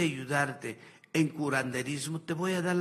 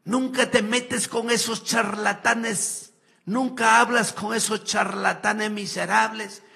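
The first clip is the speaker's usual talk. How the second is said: mocking evangelical preacher; 4 semitones higher, 5 dB louder than usual. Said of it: "Ahí dice evangélico".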